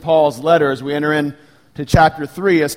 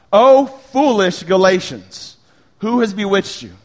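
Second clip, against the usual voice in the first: slow, raised, loud reproach; impassioned rebuke; 4 semitones higher, 3 dB louder, slower than usual. Acted. Preacher reading Paul's correction to the Galatians, impassioned rebuke. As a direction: draw it out in higher-pitched exasperated challenge.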